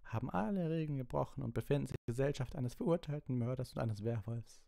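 high, tense scolding; high rant slowing on the final order; angry telling-off. A narrator's reading. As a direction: scold them as a furious teacher. Snape furiously tells off the pupils.

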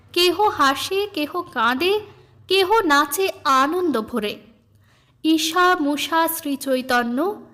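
slow, lilting recitation of a devotional song; recited song verse. Acted. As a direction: read the hymn as gentle verse. Song lyrics recited by reader.

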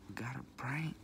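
a whispered repeat, secretive; whispered echo. Shown as a demonstration. Vlogger whispering to viewers about pranks, whispered. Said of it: "You know we gotta prank".

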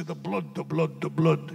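thick-voiced preacher. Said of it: "It was thick voice".

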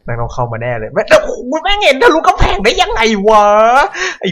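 loud high cursing yell; panicked yelling. Real, not acted. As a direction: curse out loud in fright. Zombie sees through wall.

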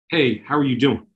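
a suspicious, scolding "Hey, how are you doing?". Shown as a demonstration. Parent questioning a child, non-trusting and scolding. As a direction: ask it like you already don't trust them. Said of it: "in a scolding tone".

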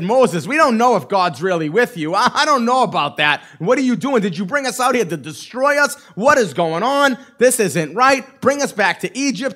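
acted-out whining, a bit worked up; mock a grumbling crowd piling up complaints. Israelites complain to Moses before the Red Sea, mild mock whining. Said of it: "They whined. They complained".

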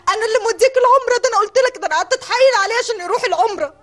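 fast, high and tearful; tearful retort. Real, not acted. Wife reminding husband she sent him on Umrah, crying. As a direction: push it out through tears.

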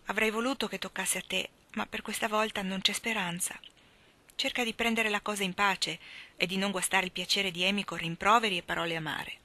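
a touch of sorrow, understated; sorrowful. Acted. Mother consoles Jo, mildly sorrowful. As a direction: gently share her sorrow. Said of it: "le disse addolorata".

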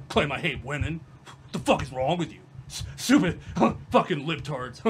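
a hint of a low huffy blowhard; mocking Jeremy. She parodies Jeremy defending himself, low mock indignation. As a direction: play the indignant guy, half laughing.

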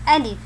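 "ألف" loud with a clear kasra on the lam; careful letter name. Shown as a demonstration. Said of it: "فيجب أن ننطقها بكسر اللام".

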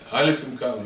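insistent alphabet drill; teacher drilling child. Acted. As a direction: chant the letter lesson for a small child. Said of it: "אתה אומר לו".

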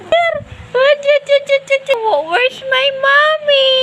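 put-on baby voice. Voicing the puppy.

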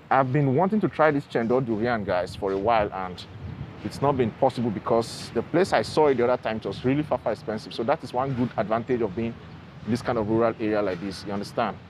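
muffled behind surgical mask; through a face mask. Real, not acted. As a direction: mask covering mouth and nose. Seen 1: surgical mask covers mouth and nose throughout labelled speech.

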